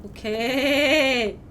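ordinary talk, nothing marked

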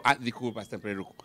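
put-on scolded drunk apologizing meekly; sheepish apology. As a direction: shrink back and apologize.

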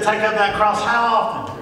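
loud, high question to the congregation; preacher calling out for the congregation's answer; call for response. Shown as a demonstration. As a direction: pull the answer out of the crowd. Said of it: "That sounds a little better".

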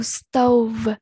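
"stove" with a clear long OH vowel; teacher's demonstration of "stove", vowel as OH; O sound in stove. Shown as a demonstration. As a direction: model "stove" carefully on OH. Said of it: "có âm O".

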